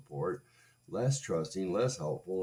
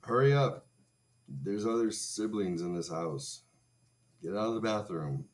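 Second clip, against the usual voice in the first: parent yelling; 3 semitones higher, 3 dB louder than usual. Retold or imitated. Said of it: "the kind of personal business that you tell your kids, like".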